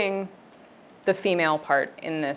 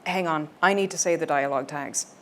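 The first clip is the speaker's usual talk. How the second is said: Nick's own voice. Acted. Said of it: "Nick, in his own voice".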